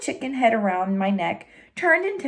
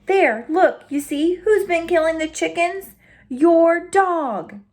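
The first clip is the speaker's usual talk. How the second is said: raised voice of an accusing rancher; scolding rancher; 7 semitones higher, slower than usual. Acted. Rancher accusing the dog, lightly voiced and stern. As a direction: point out the guilty dog, voice pitched up.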